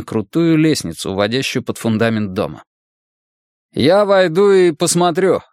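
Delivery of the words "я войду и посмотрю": raised, slow call, pitched high. A narrator's reading. Man calls to his partner before entering a dark cellar, calling out. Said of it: "крикнул Магнус".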